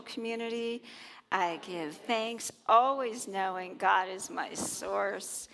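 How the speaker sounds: calm unison affirmation; spoken affirmation. Acted. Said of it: "say that affirmation with me".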